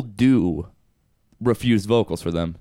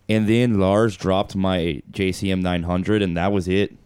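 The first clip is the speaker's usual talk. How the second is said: bad, slow Swedish accent; a clumsy try at a Swedish accent; 2 semitones lower, slower than usual. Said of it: "that was a terrible Swedish accent".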